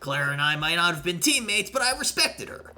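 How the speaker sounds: indignant, high, emphatic game-character outburst; acted angry rival; heated accusation. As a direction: argue hotly, pitching up on key words.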